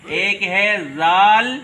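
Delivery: slow, loud زال with rising end; letter name drawn out. Shown as a demonstration. Teacher spells Arabic letters for children. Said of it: "الف با کی تختی میں".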